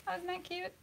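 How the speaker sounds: high sarcastic coo; mock cute. Mocking her own wrong perspective.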